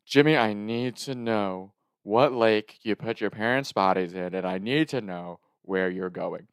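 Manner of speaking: slow, stern demand; lightly voiced grave, deliberate questioning; serious grandma. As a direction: imitate grandma gravely insisting. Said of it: "when she gets serious on the phone".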